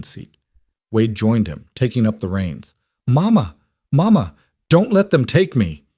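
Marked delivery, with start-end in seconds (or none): 3.1-5.8 high loud screams for mama; child screaming. A narrator's reading. Little girl screaming to her mother from the wagon. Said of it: "hoarse from screaming".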